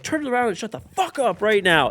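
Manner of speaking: high, forceful mock command; retold angry order. Ordering the rude passenger to face forward, high angry shout. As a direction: order him to turn around, hard. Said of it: "I was like".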